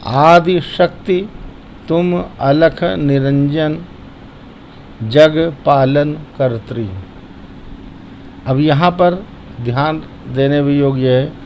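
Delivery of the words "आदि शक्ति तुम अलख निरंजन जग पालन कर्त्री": slow, careful chanting of the verse; slow recitation. Shown as a demonstration. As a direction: recite each word slowly and clearly. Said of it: "उसको ध्यान दीजिए". (धीमा, स्पष्ट पाठ)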